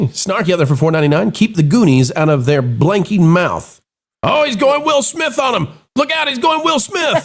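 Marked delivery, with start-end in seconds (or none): 4.2-7.3 excited shout. Real, not acted. Laughing at a super chat.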